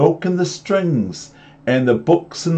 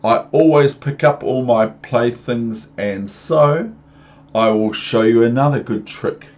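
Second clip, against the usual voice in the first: cheerful cat; 3 dB louder than usual. Acted. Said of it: "said the Cat in the Hat".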